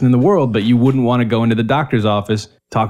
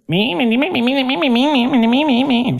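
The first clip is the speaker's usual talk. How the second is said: high nonsense chatter, much higher; mocking babble. Overheard middle-aged women in the grocery store, mimicked as high babble. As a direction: mimic women jabbering in a shrill stream. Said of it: "I'll hear".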